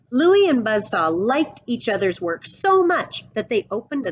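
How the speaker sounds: put-on storyteller reading a picture book to kids; read-aloud storybook voice; story narration. A narrator's reading. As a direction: paint the western showdown for the class.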